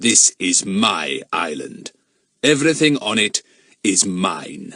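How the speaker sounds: lightly voiced stern, imperious man; menacing villain. Mister Eppie asserting his ownership to Jack, lightly imperious. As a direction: declare it with measured authority.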